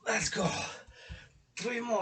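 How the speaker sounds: whispered pep; whispering. Real, not acted. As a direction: push yourself in a whisper. Psyching up mid-set.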